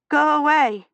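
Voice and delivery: shaky cry of go away through chattering teeth; frightened, chattering teeth. A narrator's reading. Feverish girl begs the stranger to leave, high and afraid. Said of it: "her teeth chattering so hard".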